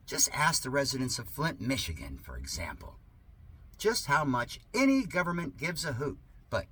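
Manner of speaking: sarcastic reading. Acted. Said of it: "Yes, this is sarcasm".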